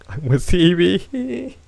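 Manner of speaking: high, loud and very slow, like a grand speech; mock heroic proclamation. Rallying the chat against breathing, in a grand slow voice.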